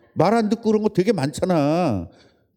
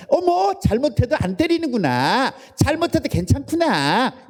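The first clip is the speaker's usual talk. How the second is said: high sing-song surprise; high, coy gasp of false relief; a high, chirpy realisation; mock delighted misunderstanding; 8 semitones higher than usual. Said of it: "이렇게 하는 거예요".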